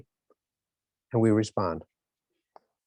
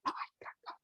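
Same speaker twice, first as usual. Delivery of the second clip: fake lost voice; 18 dB quieter, faster than usual. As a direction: pretend you've lost your voice. Faking lost voice to boss.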